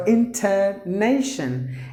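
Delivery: "intonation" said slowly with NAY stressed. Shown as a demonstration. Teacher modelling stress in intonation, weighted NAY syllable. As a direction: lean on the "na" in intonation. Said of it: "should be given more volume".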